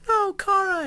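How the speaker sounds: high-pitched mock-panicked cry; acted alarmed cry. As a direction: cry out as if stopping someone from jumping. Acting his panic as she jumps.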